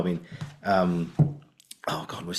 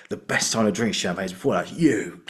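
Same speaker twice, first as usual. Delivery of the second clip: whispered ending. Retold or imitated. Another actor's take on the line, plain then whispered. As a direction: end the line on a whispered You. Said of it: "the way that O N T always went".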